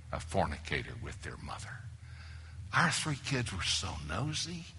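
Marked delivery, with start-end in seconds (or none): 0.1-1.8 whispered, as if admitting a secret; hushed confession. Real, not acted. Preacher confessing to his church in a whisper. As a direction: drop to a whisper on the shameful word.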